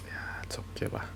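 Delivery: soft voiceless whisper. Acted. Reassuring a crying partner, whispered. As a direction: let it fade into a whisper.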